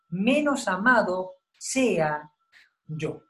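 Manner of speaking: slow, solemn reading of the verse; preacher reads Paul's words to the congregation, slow and solemn; scripture reading. Acted. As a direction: read the Bible passage slowly and weightily. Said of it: "dice así".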